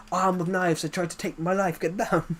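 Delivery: a hint of Austrian action hero; Arnold Schwarzenegger. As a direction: complain like an accented action star. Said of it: "When I try and do a Terminator voice".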